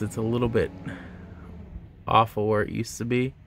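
talking while showing braces; finger pulling lip down. Real, not acted. Seen 4: Finger pulls lower lip down, showing braces, through most of the words.

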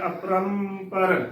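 "ਅਪਰੰਪਰ" with drawn-out nasal ram; correct pronunciation. Shown as a demonstration. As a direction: hold the nasal in "ਅਪਰੰਪਰ", then add par. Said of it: "ਅਪਰੰਪਰ ਕਰਨਾ ਹੈ".

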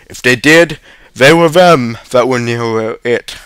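dark insinuation, leaning on the words. A narrator's reading. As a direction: lay the blame darkly. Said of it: "said the woman darkly".

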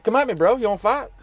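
hammed-up fake fight offer; mock challenge. Trucker teases mechanic about bad review, mock tough.

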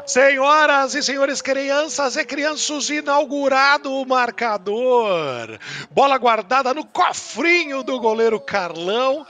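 slow, grand ringmaster announcement. Acted. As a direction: announce it like a circus host. Circus-style announcement.

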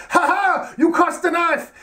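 high mock gloat, half-shouted; a silly triumphant villain; gloating sergeant. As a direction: crow over her in a hammed-up high voice. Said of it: "he's like".

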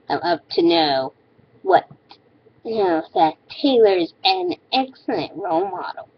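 high ditzy mocking read; mocking girly voice. Reading hater's comment mockingly.

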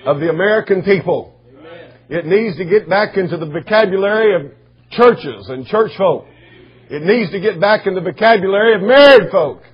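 emphatic preaching cadence, building in volume. Real, not acted. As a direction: drive each phrase home to the congregation. Preaches with rising force.

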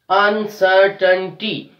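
"Uncertainty" slowed, syllable by syllable, CER stressed. Shown as a demonstration. Teacher showing third from last syllable, slow "unCERtainty". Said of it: "We are stressing on".

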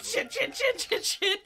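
high, laughing rapid-fire repeats; amused machine-gun repetition; retold frantic spamming. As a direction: rattle it off like frantic button mashing. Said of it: "just spammed everything".

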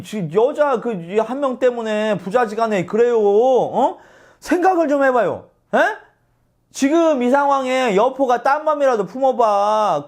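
높은 목소리로 답답해하며 따지기; 상관을 어이없어하며 설득하듯; 답답해하는 참모. Retold or imitated. 이유가 동탁을 설득하는 장면. (답답해하며 설득하는 참모)

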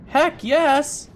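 high-pitched, thrilled exclamation; excited cheer. Real, not acted. Gamer pleased with a better jacket, excited. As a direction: cheer a lucky find.

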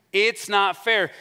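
hammed-up cry of protest; mock crying out. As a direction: act out an aggrieved complaint. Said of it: "He cries out all these things".

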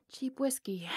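wry whispered jab. Acted. Outlaw whispering a jab about the cheap whiskey. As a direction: whisper the complaint with a smirk.

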